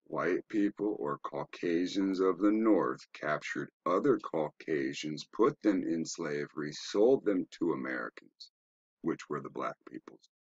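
slow, measured, deliberate phrasing; as slow as possible. Real, not acted. Teacher making it plain to viewers who don't understand, very slowly. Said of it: "say this as slow as possible".

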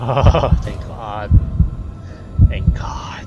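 slow, sighed-out relief; breathy relief. Acted. Man believes he is understood, relieved sigh. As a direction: let it out on a long exhale.

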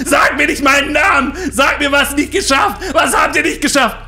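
high, loud raging shout; wütend schreiend. Retold or imitated. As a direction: scream at her, losing it. (laut tobend schreiend)

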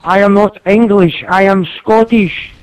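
loud, emphatic protest, slowing at the end; indignant correction. Real, not acted. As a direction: set them straight about nationality, loudly. Corrects being taken for English.

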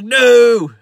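long, loud, high cry; mock anguished yell. McGarrett finds Dano on the ground, dramatic yell. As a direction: wail it out in hammed-up horror. Acts out finding his friend shot.

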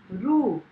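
रू with its ऊ held long; long vowel demo. Shown as a demonstration. Teacher showing pupils the long ऊ sound, drawn-out रू. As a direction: draw out the vowel in रू. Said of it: "इसका उच्चारण लंबा तथा काफ़ी समय तक".

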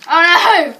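a loud, high put-on English "Oh no!"; mock English accent. Boy jokingly exclaims in a bad English accent. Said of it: "That was a real English accent".

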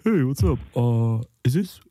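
a lightly voiced Bane, mostly his own voice; a half-hearted Bane impression, underplayed. Comic host doing a weekly Bane impression for his co-host, lightly voiced. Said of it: "That was my Bane impression of the week".

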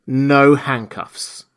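very slow, each word laid down; insist, drawing out no handcuffs; firm stipulation. Acted. The stranger to Jaffers, slow and firm. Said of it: "stipulated the stranger".

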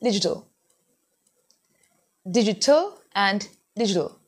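"digital" repeated, sounds not stressed; American pronunciation. Shown as a demonstration. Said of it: "it's not the pace".

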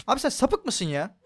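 high, loud panicked shout at the monster; startled cry of alarm; scared yell. Real, not acted. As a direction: yell it in fright as it chases you. Chased by a monster in game.

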